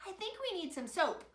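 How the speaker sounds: high little piggy; piggy's high line. A narrator's reading. Little piggy suggests soap to her family, high voice. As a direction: say it high and sweet. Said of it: "said little piggy".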